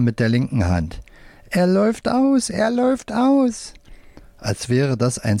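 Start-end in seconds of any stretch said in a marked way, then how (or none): 1.5-3.7 squeaky alarmed puppet. A narrator's reading. Left-hand puppet alarmed.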